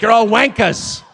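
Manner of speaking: laughing mock insult. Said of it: "Be like".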